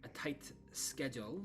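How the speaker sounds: happily agree, then hedge; cheerful Arabelle. Acted. Arabelle agrees to help Lydia but mentions Petra, eager.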